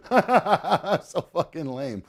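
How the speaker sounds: slow words through laughter; laughing. Real, not acted. Laughs at cheap bottle.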